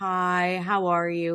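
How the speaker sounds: very slow, gloomy, dragging voice, hi drawn out. Describing coworkers greeting her at meetings, doing an Eeyore impression. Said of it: "Like Eeyore".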